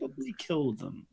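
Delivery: soft, secretive suggestion; quietly. Acted. Malik privately suggesting they kill them, quietly. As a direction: slip it in under your voice. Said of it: "Malik kind of says quietly".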